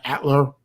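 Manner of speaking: "Atler" said in two syllables, AT-ler; tentative pronunciation. Shown as a demonstration. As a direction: try "Atler" as AT-ler, unsure. Trying out pronunciations of channel name.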